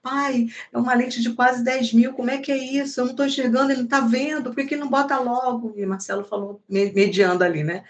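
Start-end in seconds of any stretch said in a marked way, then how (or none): 0.0-5.7 higher pitched, anxious retold complaint; a teen's worried, rising protest to his parents; nervous. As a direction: voice the son's nervous frustration. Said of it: "o Pedro nervoso".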